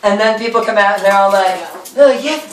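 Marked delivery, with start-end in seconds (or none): 2.0-2.5 high put-on voice; put-on greeting. People coming out to Pip, put-on greeting. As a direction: raise the voice into a performed welcome.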